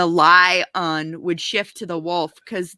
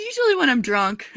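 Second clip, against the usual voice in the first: laughing; 5 semitones higher than usual. Real, not acted. Joking about doing shows.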